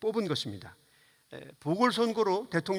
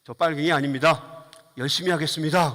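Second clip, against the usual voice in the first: louder, unruffled campaign pledge; imitated grinning candidate; 5 dB louder than usual. Candidate replying to an abusive voter, imitated smiling and undisturbed. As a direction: answer the heckler with a put-on, eager grin. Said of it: "싱글싱글 웃으면서".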